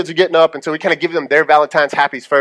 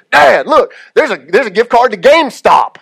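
put-on higher, louder eager kid voice; a six-year-old pointing out a treasure; excited little boy; 5 semitones higher, 4 dB louder than usual. Son calling to dad about GameStop card, eager and higher.

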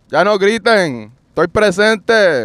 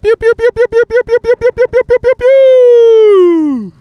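bird chirps; 14 semitones higher, 5 dB louder than usual. Retold or imitated. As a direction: chirp like a little bird, stretching the end.

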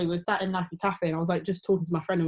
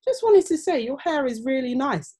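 lightly imitated Australian accent, higher pitch; a touch of Australian, pitched up; 6 semitones higher than usual. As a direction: imitate an older Australian man. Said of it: "in an Australian accent".

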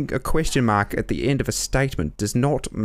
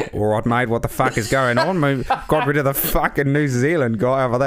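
put-on Australian accent. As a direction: swear it out like an Aussie bloke. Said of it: "let me switch it up".

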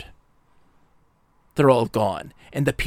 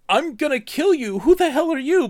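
hostile threat; 14 semitones higher, 4 dB louder than usual. Retold or imitated. Hostile stranger threatens Atris.

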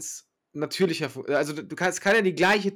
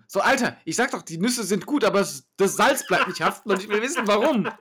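raised, fed-up complaining; annoyed rant; 5 semitones higher, 4 dB louder than usual. Pretend. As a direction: vent like an angry customer.

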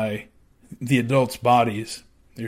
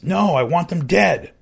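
cold insistence; 7 semitones higher, 5 dB louder than usual. Retold or imitated. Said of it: "he says".

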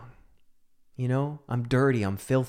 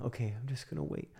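soft self-calming; 11 dB quieter, faster than usual. Retold or imitated.

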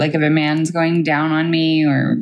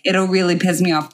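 lightly put-on Boston accent; mock-irritated Bostonian, dropping the r. Shown as a demonstration. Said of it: "in the Boston accent".

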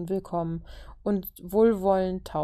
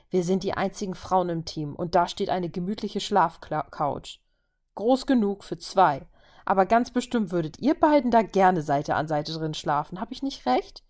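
mock annoyed. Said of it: "fragte Natascha gespielt genervt".

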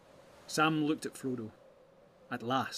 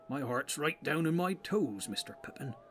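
homely hobbit servant; 3 semitones higher than usual. Acted. Servant hobbit confides his dread.

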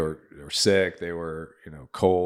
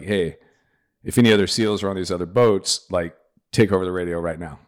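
radio call; 6 dB louder than usual. Retold or imitated. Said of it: "jumps on the radio".

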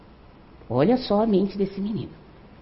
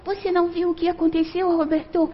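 high-pitched calling out, much higher than usual; retold shout; 11 semitones higher than usual. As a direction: call for Roberto in alarm, pitched high up.

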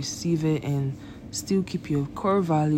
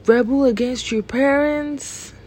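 incredulous; 9 semitones higher, 4 dB louder than usual. Real, not acted. Repeats verse in disbelief.

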